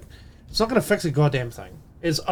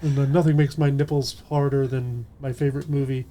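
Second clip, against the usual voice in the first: lightly imitated stoner rasp; a hint of smoker's rasp, drowsy; Moist Critical impression. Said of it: "I am ripping off Moist Critical and Meat Canyon there".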